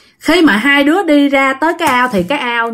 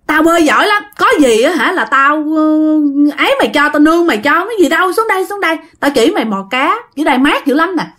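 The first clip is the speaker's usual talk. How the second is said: 1 coaxing friend; 5 semitones higher than usual. Acted. Sinh coaxing him to jump in.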